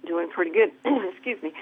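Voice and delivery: breathless after running; catching her breath between words. Real, not acted. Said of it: "I'm a little out of breath".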